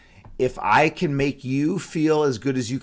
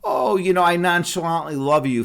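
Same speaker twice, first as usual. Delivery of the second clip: higher, louder, airily tossed-off declaration; mock nonchalant; 5 semitones higher, 4 dB louder than usual. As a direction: toss it off as a casual affection. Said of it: "I don't mean in, like, a".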